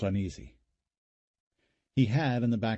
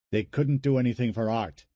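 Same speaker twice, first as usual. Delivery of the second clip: angry; 2 semitones higher, 4 dB louder than usual. Acted. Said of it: "and he was suddenly angry".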